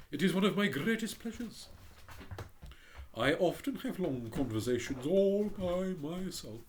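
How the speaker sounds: hint of a haughty rocket; lightly voiced pompous Rocket. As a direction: read it as a vain firework showing off. The Rocket boasting.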